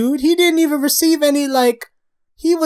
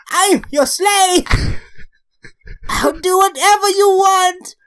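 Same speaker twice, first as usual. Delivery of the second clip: slow, drawn-out begging, raised in pitch; pleading; 4 semitones higher, slower than usual. Acted. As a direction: grovel theatrically, stretching each word. Acting out a begging story character.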